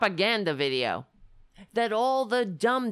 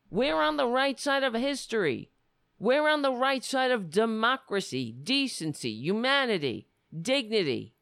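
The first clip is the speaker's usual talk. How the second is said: rising, forceful declaration; passionate rant; 2 semitones higher than usual. Real, not acted. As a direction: proclaim it like a rally speech. Impassioned political rant.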